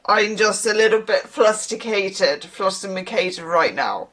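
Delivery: lightly acted drunk; slow, halting mock-drunk confession; tipsy. Drinker assuring someone of love, lightly tipsy. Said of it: "probably by drink".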